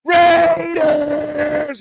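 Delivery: high, loud, drawn-out fan yell; imitated yelling. Boy yelling through the hallways, imitated shout. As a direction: holler it long like a kid. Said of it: "He's yelling".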